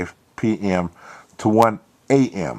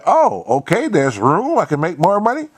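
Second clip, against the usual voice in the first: hopeful echo; 10 semitones higher, 4 dB louder than usual. Retold or imitated. Narrator echoing hopefully.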